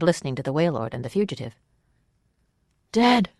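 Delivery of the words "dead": high, strained hoarse whisper. A narrator's reading. Fugitive telling the Waylord of the deaths, hoarse whisper. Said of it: "in a hoarse whisper".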